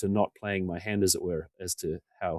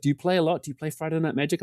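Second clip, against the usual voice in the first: lightly voiced curious player, higher; a hint of a keen newcomer sizing you up; eager stranger; 7 semitones higher than usual. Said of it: "someone's like".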